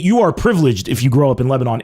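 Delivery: usual speaking voice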